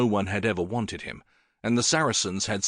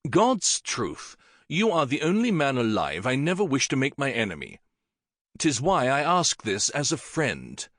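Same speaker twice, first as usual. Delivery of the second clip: sincere; 4 semitones higher than usual. Acted. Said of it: "Henry looked sincere".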